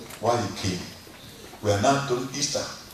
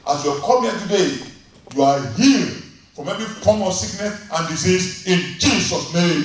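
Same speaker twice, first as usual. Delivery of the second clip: fervent preached prayer; 2 semitones higher, 3 dB louder than usual. Acted. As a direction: pray over the people with rising force. Pastor leads closing prayer.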